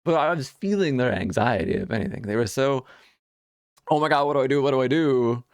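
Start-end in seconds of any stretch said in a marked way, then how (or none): 3.9-5.4 mock anxious fluster. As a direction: imitate a flustered, anxious shopper. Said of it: "overly anxious and vocal about it".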